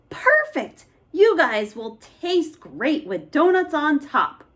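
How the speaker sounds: very high gleeful cheer; delighted monster. Acted. Monster planning to top boys with donuts, gleeful. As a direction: gloat greedily.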